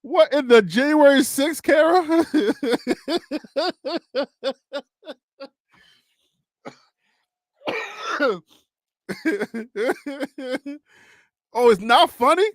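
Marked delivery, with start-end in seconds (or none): 0.0-10.8 laughing disbelief. Real, not acted. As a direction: repeat it higher, cracking up in disbelief. Repeats question, laughing disbelief.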